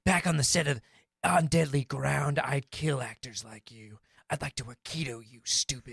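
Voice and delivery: a hint of a stern martial-arts star scolding; calm, menacing tough guy, lightly done; Steven Seagal impression. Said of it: "I'm definitely going to be Steven Seagal".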